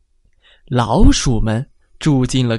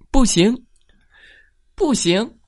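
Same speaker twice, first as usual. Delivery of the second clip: a bossy mother mouse objecting; 母老鼠大声嚷; mother mouse protesting; 10 semitones higher than usual. A narrator's reading. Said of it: "母老鼠冲着胆小先生嚷道".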